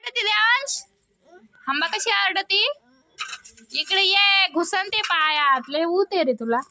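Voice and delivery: high, loud teasing scold; loud calling. Real, not acted. Mother calls, scolds son.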